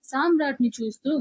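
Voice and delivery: plain reading voice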